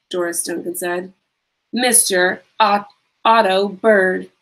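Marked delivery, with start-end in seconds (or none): 1.7-4.3 slow, menacing villain introduction; slow theatrical villain menace. Acted. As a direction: draw the name out like a villain. Villain names henchman slowly.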